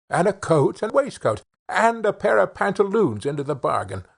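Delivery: a hint of an eager wife making plans; wife's voice. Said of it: "the wife said to the shoemaker".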